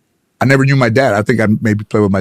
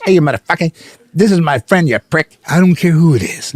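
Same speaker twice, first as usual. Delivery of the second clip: mock angry yell; 8 semitones higher than usual. Pesci yelling in retold fight.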